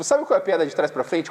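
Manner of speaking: ordinary delivery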